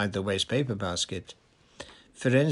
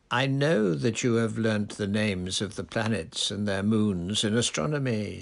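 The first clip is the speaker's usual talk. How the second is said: calm. Acted. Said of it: "said Firenze's calm voice".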